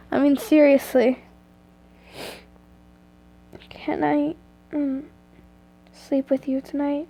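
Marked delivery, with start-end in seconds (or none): 3.7-7.1 quiet and hoarse. A narrator's reading. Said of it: "Your voice was quiet and hoarse from crying".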